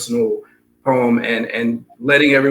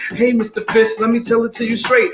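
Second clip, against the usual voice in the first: lively singsong rhyme over a beat; rhythmic story reading; 3 semitones higher than usual. Acted. Reading Pout Pout Fish to the audience, rhythmic story reading. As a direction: read it bouncy, riding the rhythm.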